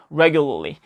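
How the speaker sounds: "regularly" run together as "regu-l'ly"; linked pronunciation demo. Shown as a demonstration. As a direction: say "regularly" with the tongue tip only flicking at the end. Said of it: "끝만 살짝 뗐다 붙이는 느낌이에요".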